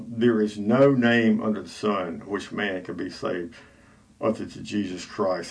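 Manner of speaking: slow, rote recitation of a creed; mechanical recitation. Real, not acted. Radio host reciting a creed to listeners, mechanically. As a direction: recite it by rote, slowly, like a formula. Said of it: "I know that's kind of mechanical, the way I said that".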